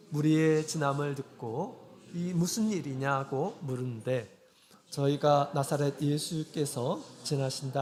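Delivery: slow, measured congregational reading; scripture reading aloud. Real, not acted. Preacher leading congregation through the Bartimaeus passage, slow scripture reading. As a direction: read the verses out in drawn-out, even phrases.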